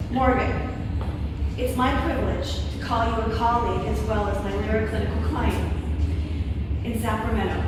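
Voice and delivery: measured ceremonial presentation, pausing between phrases; formal award speech. Real, not acted. Presenting an esthetician's award to a colleague, formal speech. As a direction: present an honor in set phrases.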